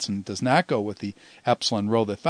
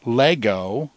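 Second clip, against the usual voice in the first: lego slowly, stressed on LE; acute accent. Shown as a demonstration. Teacher showing the accent mark, lego with stress on LE. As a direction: lean on the first syllable of "lego". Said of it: "where you put the accent".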